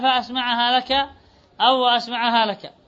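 فأسمعها as fa-asma‘ahā, وأسمعها as wa-asma‘ahā; lightened mim, fatha hamza. Shown as a demonstration. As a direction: keep the m single in فأسمعها and وأسمعها. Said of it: "يعني بتخفيف الميم". (فأسمعها ووأسمعها بميم مخففة وهمزة مفتوحة)

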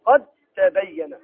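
قد تبين recited slowly with the dal merged into the ta, qattabayyan; slow Quranic recitation with assimilation; slow tajweed recitation. Shown as a demonstration. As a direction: draw out قد تبين so the dal vanishes into a doubled ta. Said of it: "في نحو قوله تعالى".

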